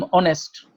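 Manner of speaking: honest said as onest, starting on a vowel; honest pronounced without the h, vowel first; honest with silent h. Shown as a demonstration. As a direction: say honest slowly, no h sound. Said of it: "honest-এর আগে শুরু হয়েছে অ দিয়ে".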